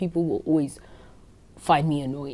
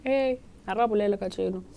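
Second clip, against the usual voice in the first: mom's voice; 5 semitones higher, 3 dB quieter than usual. Retold or imitated. Mom voiced in phone story.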